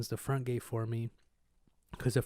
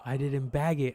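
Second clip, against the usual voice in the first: whispering. Real, not acted. Realizing money left behind.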